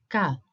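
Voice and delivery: "ka" sounded out as one syllable; syllable demo. Shown as a demonstration. Teacher breaking a Greek word into syllables, sounded out. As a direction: say "ka" on its own, clearly. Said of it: "So the first syllable is".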